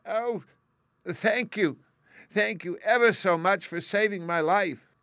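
high, tiny squeaking mouse voice; squeaky little voice. A narrator's reading. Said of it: "it said in a squeaky little voice".

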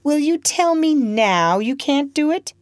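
high, harsh voice of a cruel master; angry master. Acted. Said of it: "seizing a whip and striking".

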